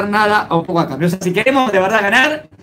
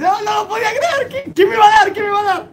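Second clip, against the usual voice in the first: much higher, half-shouted and laughing; can't believe his luck, cry it out high; excited disbelief; 11 semitones higher than usual. Acted. Beggar as the king stops by him, high excited shout.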